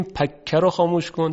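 پکه with the نون dropped into a doubled k; نون merged away in پکه; wrong merged n. Shown as a demonstration. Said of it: "که اینم غلط".

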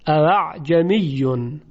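اعجمیون slowly, the second hamza softened between hamza and alif; hamza eased. Shown as a demonstration. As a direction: tajwid demo with eased hamza. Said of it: "بین همزه و الف تلفظ بشه".

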